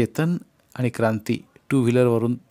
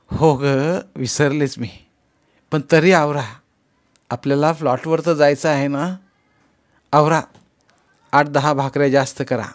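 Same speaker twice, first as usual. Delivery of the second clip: bustling urging; 2 semitones higher, 5 dB louder than usual. Acted. Mother bustling, urging family on.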